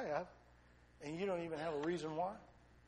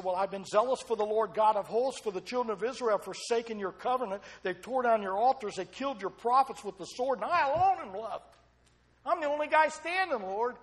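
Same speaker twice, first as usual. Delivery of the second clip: whining Elijah; 6 semitones higher, 11 dB louder than usual. Acted. Elijah complains to God.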